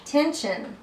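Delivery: slight Southern accent slipping out. Real, not acted. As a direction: let a hint of South Carolina drawl through. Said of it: "I heard my southern accent in that word".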